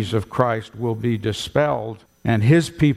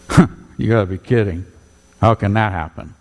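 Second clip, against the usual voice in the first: mocking; 3 semitones lower, faster than usual. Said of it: "he was mocking and saying".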